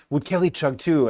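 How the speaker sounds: clumsy put-on Norwegian lilt; bad Norwegian accent. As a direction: imitate a Norwegian asking, badly. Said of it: "that's that bad Norwegian accent".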